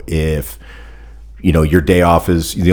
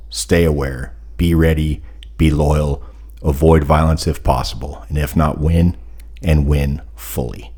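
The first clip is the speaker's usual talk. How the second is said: formal toast. Real, not acted. Delivers a toast.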